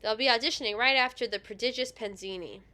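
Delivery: flat, defeated line reading. Acted. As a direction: say it like you've given up. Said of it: "the defeated tone".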